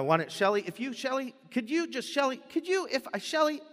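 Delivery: stammering approach, pitch climbing toward the end; nervous stammer. Retold or imitated. Asking Shelly something, mock nervous stammering. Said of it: "you just walk up and you go".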